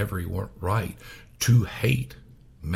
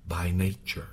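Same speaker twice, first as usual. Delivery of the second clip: whisper; 5 dB quieter than usual. Real, not acted. Preacher stressing human nature.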